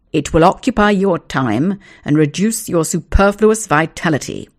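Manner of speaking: loud pompous father; stern lecturing. Acted. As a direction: lay down the law.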